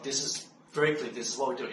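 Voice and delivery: a lightly voiced calm, firm instruction; easy and clear, no force behind it; calm and relaxed. Telling the ambulance man what to do, calm and relaxed. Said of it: "I just said it so calm and relaxed".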